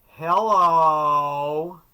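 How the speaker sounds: a dry, unexcited hello into the mic; deadpan hello. Retold or imitated. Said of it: "the first thing you hear is a singer say".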